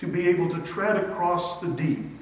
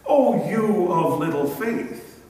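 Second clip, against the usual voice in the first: a louder, cold brush-off; mock dismissive rebuke; 6 dB louder than usual. A harsh imagined Jesus dismissing a doubter, mock cold rebuke. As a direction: say it as if you'll turn away. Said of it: "Never ever does Jesus say".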